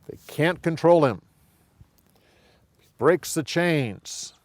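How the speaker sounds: ordinary talk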